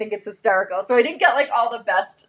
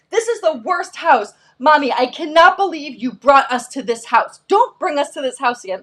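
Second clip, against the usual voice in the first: mildly acted childish complaint; indignant child; 3 semitones higher than usual. Son complaining to his mom about a house, mildly indignant. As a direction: lightly imitate an outraged little kid.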